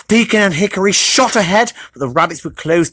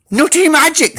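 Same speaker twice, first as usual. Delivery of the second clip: squealed; 10 semitones higher than usual. Acted. Hedgehog amazed by the nut, high squeal. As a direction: squeal with delight. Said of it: "squealed Hedgehog".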